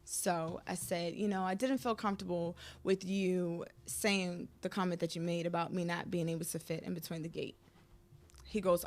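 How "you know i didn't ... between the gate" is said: retold calm, lower and softer; super calm. Wife telling husband his comment hurt, retold calmly. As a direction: raise the hurt calmly, careful not to accuse. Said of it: "I was super calm about it".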